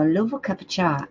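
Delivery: light British accent, said in passing. Shown as a demonstration. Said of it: "put the accent on".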